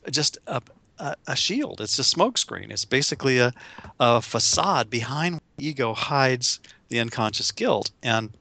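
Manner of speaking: ordinary talk, nothing marked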